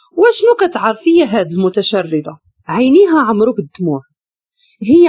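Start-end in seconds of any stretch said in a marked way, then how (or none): none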